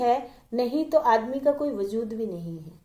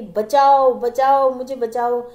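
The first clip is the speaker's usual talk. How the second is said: mock cry for help; 5 dB louder, slower than usual. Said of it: "और जोर जोर से चिल्लाने लग गई".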